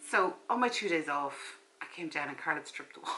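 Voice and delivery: talking while eating popcorn; chewing between the words; mouth full. Real, not acted. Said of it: "Sorry, I'm eating popcorn".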